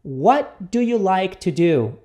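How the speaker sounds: slow, carefully spaced question; repeat-after-me model. Shown as a demonstration. Teacher introduces the example question to students, slowly. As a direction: lay the words out for learners. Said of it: "Repita comigo".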